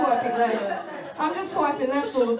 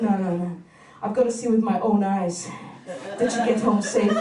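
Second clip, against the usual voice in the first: pitched lower, insistent pestering; a hint of a pushy guy; 5 semitones lower than usual. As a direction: press her, lower than your own voice.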